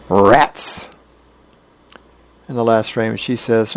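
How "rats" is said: strained outburst. Acted. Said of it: "he grimaces, his face turns red, he shakes".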